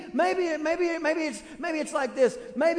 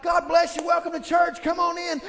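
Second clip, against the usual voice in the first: cheery greeter; 4 semitones higher, 4 dB louder than usual. Retold or imitated. Cheerful parking greeter voiced.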